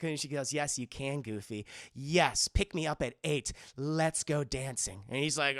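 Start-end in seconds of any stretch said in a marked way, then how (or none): 0.5-5.0 lightly voiced lower librarian; low, composed acceptance of a date; accepting librarian.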